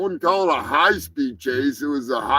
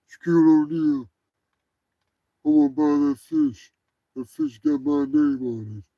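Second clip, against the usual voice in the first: Shaq impression. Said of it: "talk in my Shaq voice".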